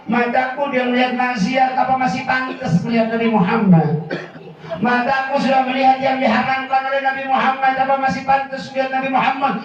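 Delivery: mildly tearful retold plea; imitated tearful lament. Crying child asks if his eyes still deserve the Prophet, tearful lament. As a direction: plead as the weeping child, without real sobs. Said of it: "begitu melihat maksiat dia nangis, dia ngomong".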